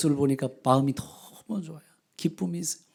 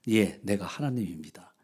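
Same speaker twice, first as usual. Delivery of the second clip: whispered, low reply; hushed answer; 9 semitones lower, 5 dB quieter than usual. A narrator's reading. God answers who he is.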